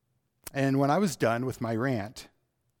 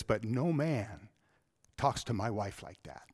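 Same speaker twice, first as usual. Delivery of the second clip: hushed voice; 3 semitones lower, 6 dB quieter than usual. Retold or imitated. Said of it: "he spoke in a very hushed voice".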